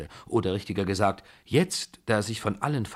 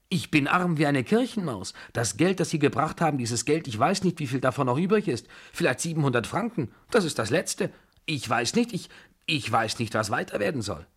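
higher-pitched, distressed lament; nearly sobbing; 6 semitones higher than usual. A narrator's reading. General confessing he is penniless, nearly sobbing. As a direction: plead helplessly, voice pitched up. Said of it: "fast schluchzend, mit stockendem Atem zu erzählen".

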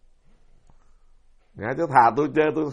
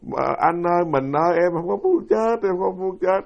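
retold plea to husband; 4 semitones higher than usual. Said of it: "bà nắm tay ông chồng nói".

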